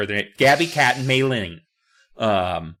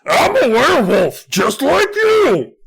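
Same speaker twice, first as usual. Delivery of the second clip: loud, high, drawn-out triumphant cry; cried out; 13 semitones higher, 7 dB louder, slower than usual. A narrator's reading. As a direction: cry it out in a slow howl. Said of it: "I cried".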